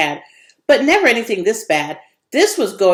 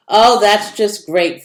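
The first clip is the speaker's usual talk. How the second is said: sarcastic sigh; 4 dB louder, slower than usual. Acted. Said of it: "Vera said and sighed".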